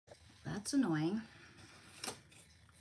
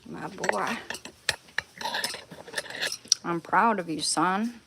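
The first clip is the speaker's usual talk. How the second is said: louder, hammed-up proud praise; mock proud father; 8 dB louder than usual. Owner praising her puppy like a proud father sending off a soldier. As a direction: salute him like a proud old general.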